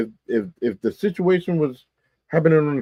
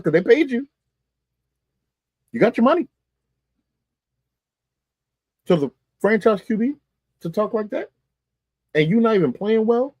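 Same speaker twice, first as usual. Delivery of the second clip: rising incredulity; 9 semitones higher than usual. Real, not acted. Rising outrage at franchise QB.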